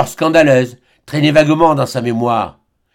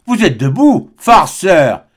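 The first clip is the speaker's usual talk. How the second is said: astonished cry; 2 semitones higher, 4 dB louder, slower than usual. Acted. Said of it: "cria le docteur stupéfait".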